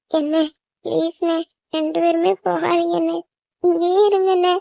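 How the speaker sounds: crying as they pour out their loneliness; tearful pleading. Acted. Younger sibling begging both brothers not to leave, tearful. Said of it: "இப்ப எதுக்கு நீ அழுகுற?".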